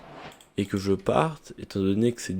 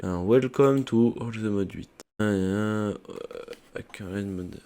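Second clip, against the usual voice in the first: French-accented English; much slower than usual. Real, not acted. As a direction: welcome to All the Mod huit read slowly in a French accent. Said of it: "mon accent anglais et mon anglais n'étant pas incroyable".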